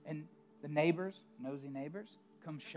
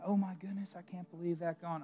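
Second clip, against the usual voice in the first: son screaming; 3 semitones higher, 4 dB louder than usual. Acted. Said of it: "kicking and screaming".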